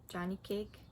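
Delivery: rough, hoarse call. Acted. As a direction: say it with a hoarse throat. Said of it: "he said in a hoarse voice".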